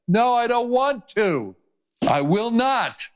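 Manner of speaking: high, defiant no, slowing at will not; stubborn refusal. Pretend. Drowning man refusing the rescuer, high defiant refusal. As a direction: refuse flatly, digging in.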